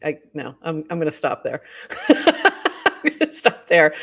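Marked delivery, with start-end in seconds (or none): 1.9-3.9 slow, higher, louder words through laughter; laughing. Real, not acted. Host abandons a tongue twister on air, laughing. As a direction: give up, laughing out loud.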